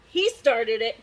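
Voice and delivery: cried out. Acted. King crying out to blame the dragon, loud accusation. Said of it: "he cried".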